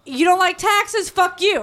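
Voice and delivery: high, slow, mocking bully voice; bully monkey. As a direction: voice a smug older monkey sneering at a baby. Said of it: "they're like".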